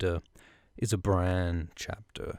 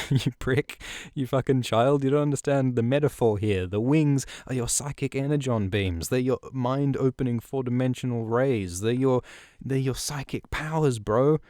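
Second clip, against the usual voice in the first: fast, higher, mocking rant at a dense kid; hammed-up annoyed Bloodraven; exasperated mentor; 4 semitones higher than usual. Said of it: "but Bloodraven's like".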